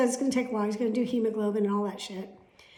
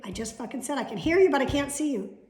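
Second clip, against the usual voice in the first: louder, annoyed snap; exasperated retort; 4 semitones higher, 5 dB louder than usual. Retold or imitated. Snapping at the doctor over the video call, exasperated. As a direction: bite it back at him.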